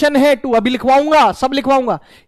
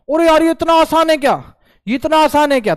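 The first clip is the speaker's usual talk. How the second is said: higher-pitched mock amazement; amazed student; 5 semitones higher than usual. Student reacting to how easy it is, mock amazed.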